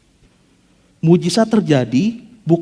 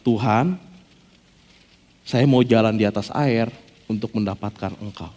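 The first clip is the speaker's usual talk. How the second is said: softer, lower, small request to God; timid request; 7 semitones lower, 6 dB quieter than usual. Acted. Preacher voicing Peter's plea, softer and lower. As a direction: say it small and hushed. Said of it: "Yang dia minta adalah".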